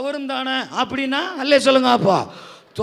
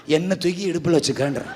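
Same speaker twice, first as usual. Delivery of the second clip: ordinary talk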